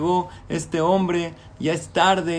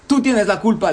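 high, loud accusing shout; childish anger; 4 semitones higher, 5 dB louder than usual. Acted. Boy shouting at his teddy bear, angry. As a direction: blame the teddy bear, furious.

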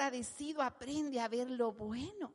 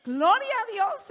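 higher, louder shout of praise; exclaim praise; 7 semitones higher, 9 dB louder than usual. Real, not acted. Preacher bursts into praise to the congregation, loud. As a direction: shout glory to God.

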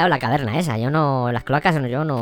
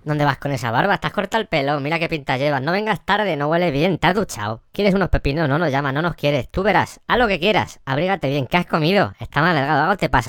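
lightly voiced nagging mother; smothering mother. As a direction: nag like an overbearing mom. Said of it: "Hago de madre atosigante".

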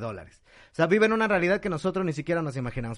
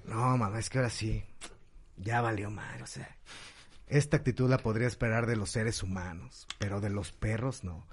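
put-on indignant kid; 7 semitones lower, 8 dB quieter than usual. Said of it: "Pepito así bien enojado".

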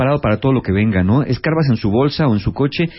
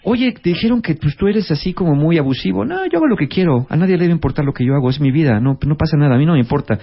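defensive denial; 3 semitones higher than usual. Retold or imitated. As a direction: brush it off, defensive. Acted exchange, defensive denial.

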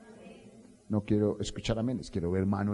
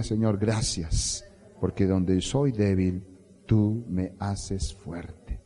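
slow prayer; 3 semitones lower, much slower than usual. Shown as a demonstration.

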